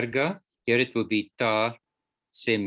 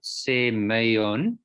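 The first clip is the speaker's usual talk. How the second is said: "Semeion" with the stress on the middle "mei"; "Semeion" said carefully to show where the stress falls; stressed syllable shown. Shown as a demonstration. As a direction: land the weight on "mei" in "Semeion", ending in a rise. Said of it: "the emphasis is on the A".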